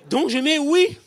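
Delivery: high, loud punchline yelp; loud exclaim. Acted. Recruit blurting his honest answer on the army form. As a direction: shout the answer as a comic reveal.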